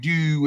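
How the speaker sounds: "do" stressed in a Baltimore accent. Shown as a demonstration. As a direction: lean on "do" to show the local vowel. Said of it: "I hear that".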